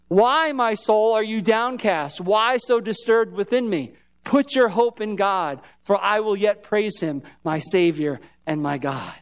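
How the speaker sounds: slow, deliberate reading of the psalm; slow scripture reading. Acted. Pastor reading David's psalm to the church, slow. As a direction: read each phrase slowly, like scripture. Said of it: "He's talking to himself".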